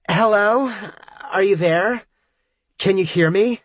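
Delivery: high, loud, slurred yelling; drunk yelling. A narrator's reading. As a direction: shout over a noisy bar. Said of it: "Nanette is yelling into the phone".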